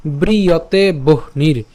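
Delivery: slow, careful verse recital; slow recitation. Shown as a demonstration. Teacher repeating the verse from the start, slowly. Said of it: "আমি আবার প্রথম থেকে বলছি".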